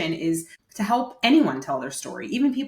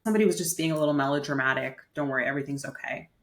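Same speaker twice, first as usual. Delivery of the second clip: quick, lowered-key soothing retelling; calming reassurance; 3 semitones lower, faster than usual. Retold or imitated. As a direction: play down the fuss to calm someone. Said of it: "in my attempt to calm her down".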